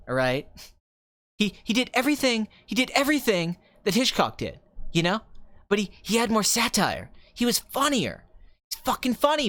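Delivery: lightly voiced ranting young film director; young Tarantino. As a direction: gush like an opinionated movie geek. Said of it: "that's especially young Tarantino. That's really how he talked".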